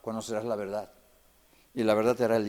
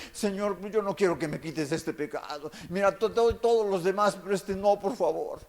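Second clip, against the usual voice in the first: mock whiny plea; 5 semitones higher than usual. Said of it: "está llore y llore".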